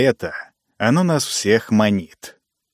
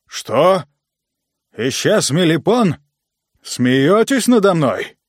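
surprised; 5 semitones higher, slower than usual. Acted. Boss hears agent vanished.

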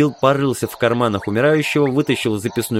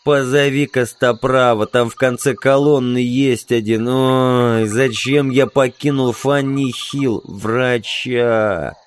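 slow, drawn-out moaning plea; wounded man moaning for a medic; pained groaning; slower than usual. Acted. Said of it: "простонал второй, корчась от боли". (страдальческий стон раненого)

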